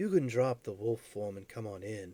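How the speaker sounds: soft elven character voice. Describing what anyone standing there can hear, speaking in an elven voice. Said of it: "distinctly in an elven voice go".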